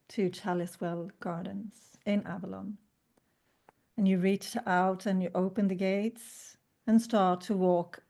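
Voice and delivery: calm meditation narration; guided meditation. Acted. S0 continues the meditation.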